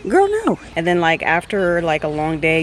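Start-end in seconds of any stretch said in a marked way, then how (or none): 0.1-0.6 1 playful refusal. Real, not acted. Refusing dog.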